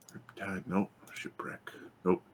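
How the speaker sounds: very soft, half-whispered searching; muttering to self. Real, not acted. Game master hunting for the measured map, muttering to self. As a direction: mumble it under your breath as you look.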